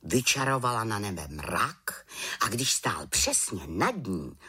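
ordinary delivery

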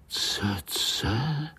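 whispered astonished question; awed hushed echo; amazed whisper. Acted. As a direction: breathe the strange word in wonder. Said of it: "žasli pavoučci".

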